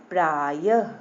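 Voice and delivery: प्रायः ending in an audible ह puff; breathed ha ending. Shown as a demonstration. Teacher demonstrates visarga, प्रायः with final ha. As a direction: sound a clear ह at the end of प्रायः. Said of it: "हा निकला ना".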